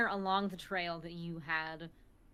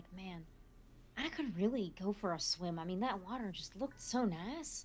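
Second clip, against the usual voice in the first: mumbling, muttering under breath; 3 dB quieter than usual. Voicing a character on a car ride, not to anyone: muttering under her breath. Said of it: "Fig kind of mutters under her breath".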